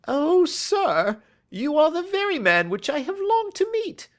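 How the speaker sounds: high, loud eager cry; crying out eagerly. Acted. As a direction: cry out with desperate hope. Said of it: "cried the little fellow".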